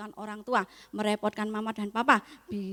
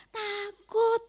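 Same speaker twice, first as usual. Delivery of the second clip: put-on small scared child; 10 semitones higher than usual. Child says it is afraid.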